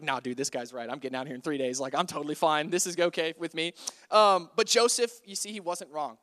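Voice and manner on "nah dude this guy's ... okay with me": low, laid-back mock reply; lightly imitated dude who is totally fine; unbothered. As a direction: shrug it off in a lower voice. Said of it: "cupbearer was probably like".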